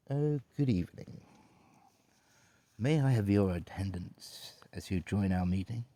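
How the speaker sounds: very posh British butler voice; formal posh British welcome; Grim. Pretend. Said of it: "He's very posh British".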